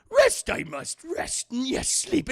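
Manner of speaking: high, loud, squeaky Yoda dodging the question. Retold or imitated. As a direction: squeal it out to avoid answering. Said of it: "And Yoda's like".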